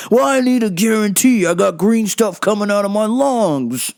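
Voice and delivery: mock indignant customer; irate customer. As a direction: demand it like a fed-up customer. Acted customer demanding a guarantee.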